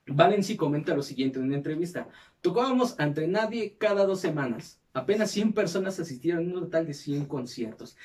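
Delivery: measured documentary-style read; scripted narration. Acted. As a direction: read it out like a podcast history segment. Reads the episode script aloud.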